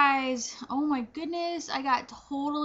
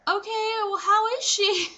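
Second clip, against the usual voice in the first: high polite concern; 8 semitones higher, 3 dB louder than usual. Retold or imitated. Retold polite question after shock.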